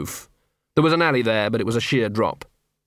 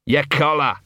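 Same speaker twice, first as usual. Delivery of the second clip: through his teeth; 3 semitones higher than usual. Acted. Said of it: "said Gaspode through his teeth".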